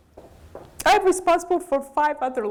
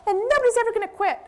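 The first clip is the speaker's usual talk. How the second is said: mock idealist entrepreneur; 8 semitones higher than usual. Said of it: "Every entrepreneur goes".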